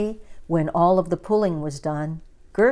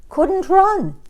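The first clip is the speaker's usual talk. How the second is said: high strained cry; 12 semitones higher, 5 dB louder than usual. A narrator's reading. Stuck bird struggling.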